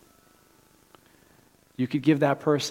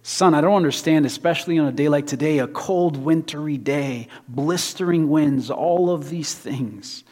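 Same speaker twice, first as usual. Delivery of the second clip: a hint of an incredulous older man, louder and higher; lightly voiced attendant, stretching out the cold-day details; puzzled station man; 3 semitones higher, 5 dB louder than usual. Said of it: "the man retorted".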